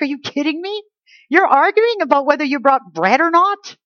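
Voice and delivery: mock the bread argument in disbelief; exasperated disbelief. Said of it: "He's so exasperated with these guys".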